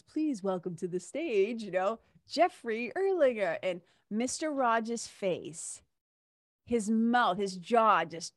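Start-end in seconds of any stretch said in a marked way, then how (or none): 0.0-3.6 announcer. Retold or imitated. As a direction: call the name out like an awards-show host. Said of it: "the announcement says".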